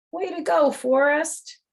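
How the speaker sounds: high excited cheer. Acted. The author praises the cat for the kids, high excited cheer. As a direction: cheer him on with delight.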